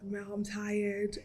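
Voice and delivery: slow, drained complaint; weary. Retold or imitated. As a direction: drag out the fatigue. Complaining to sister.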